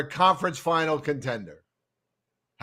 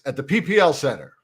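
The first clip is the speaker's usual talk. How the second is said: fake announcer voice. Shown as a demonstration. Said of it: "I used my fake announcer voice for that".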